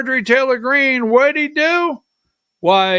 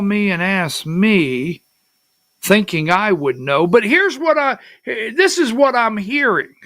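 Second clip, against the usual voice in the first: retold reply; 3 semitones higher than usual. Replying to caller in retold call.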